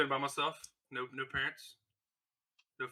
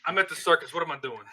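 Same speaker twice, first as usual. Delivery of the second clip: put-on Boston accent; 3 semitones higher, 6 dB louder than usual. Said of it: "talks in kind of like a Boston-y kinda way".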